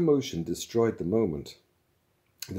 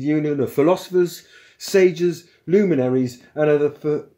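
loud, high, officious union spokesman; Magic Thighs; 7 semitones higher, 9 dB louder than usual. Acted. Philosopher demanding the machine be switched off, loud and officious. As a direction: declaim the union's demand forcefully.

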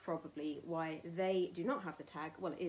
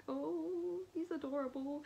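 put-on gushing girl; 9 semitones higher, slower than usual. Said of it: "I was like".

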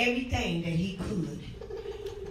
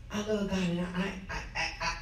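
whiny excuse mimic; 6 semitones lower, 7 dB quieter, faster than usual. Mocking tired churchgoer excuse.

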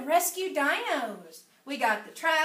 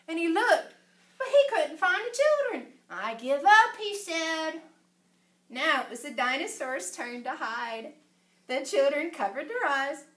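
animated, sing-song storybook narration; story reading to children; 3 dB louder than usual. A narrator's reading. Reader telling children about Danny's dinosaur at the zoo, animated storytelling. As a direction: read it out expressively for young listeners. Reads picture book aloud to children.

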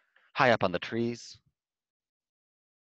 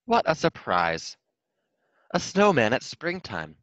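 slow, loud amazed exclaim; surprised exclaim; 5 semitones higher, 6 dB louder, slower than usual. A narrator's reading. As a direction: gasp it out in wonder. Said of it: "exclaimed Mister Hedgehog".

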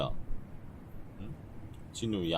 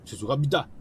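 crisp apology; 6 semitones higher, 4 dB louder than usual. Acted. Reading junior's apology.

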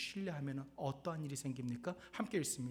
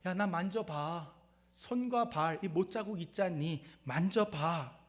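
Jesus inviting touch; 4 semitones higher, 6 dB louder, slower than usual. Retold or imitated. Pastor voices risen Jesus to disciples.

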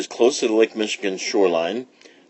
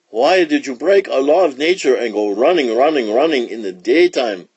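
raised, questioning lion king voice; king's cry; 3 semitones higher, 3 dB louder than usual. Acted. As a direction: demand an explanation like a king. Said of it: "cried the king".

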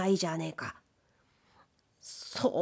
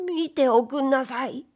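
lightly voiced furious wife; angry wife; 4 semitones higher than usual. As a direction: quote her threat, a bit higher. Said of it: "いきなりポカッと".

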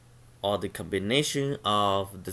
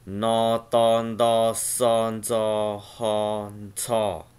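louder syllable drill; 4 dB louder, much slower than usual. Shown as a demonstration. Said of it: "the next one is".

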